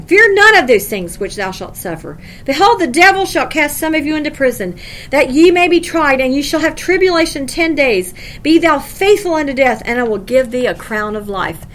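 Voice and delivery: measured, solemn reading of the verse; scripture reading. Acted. Preacher reading Revelation to the congregation, solemn. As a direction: read it like holy writ.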